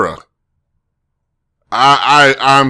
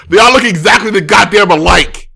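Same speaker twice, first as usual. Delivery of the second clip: loud, higher comic rant; fed-up shouting; exasperated outburst; 7 semitones higher, 5 dB louder than usual. Real, not acted. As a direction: burst out in frustration. Exasperated at identical-looking cars.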